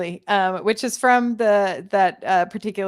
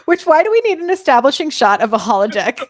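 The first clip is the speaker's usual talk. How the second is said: laughing; 7 semitones higher, 9 dB louder, faster than usual. Real, not acted. Laughing at a pointless establishing shot.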